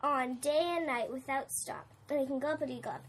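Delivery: lightly voiced scolding Lorax; a hint of the Lorax, reproachful and sad. Lorax scolding the Once-ler.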